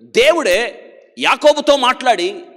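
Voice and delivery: preaching at full force. Acted. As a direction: drive the point home to the crowd. Preacher builds to a climax. (ఉద్రేకంతో బోధించడం)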